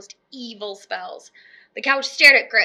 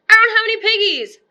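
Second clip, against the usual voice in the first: much higher, louder, fast; panicked screech; 10 semitones higher, 8 dB louder, faster than usual. Acted. Witch missing her main ingredient, screeching fast. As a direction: wail it in frantic outrage. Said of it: "screeched Gritch".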